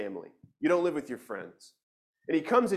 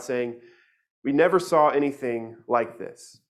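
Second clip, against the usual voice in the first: scripture reading. Acted. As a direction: read the passage out to the church.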